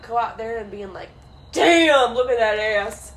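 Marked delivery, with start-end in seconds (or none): 1.5-3.1 mock catcall. Pretending to catcall a passing guy, a loud mock call.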